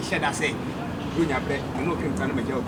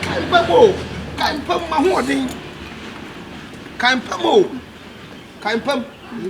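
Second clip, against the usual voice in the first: high, loud plea breaking into laughter; loud laughing plea; 8 semitones higher, 5 dB louder, slower than usual. Acted. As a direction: beg loudly, half laughing. Begging girlfriend not to leave.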